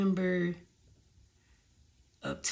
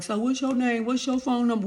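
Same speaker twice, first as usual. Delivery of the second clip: imitating the guy; 5 semitones higher than usual. Voicing the dude hitting on her.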